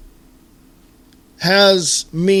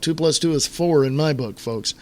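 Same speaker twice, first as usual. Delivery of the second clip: normal talking voice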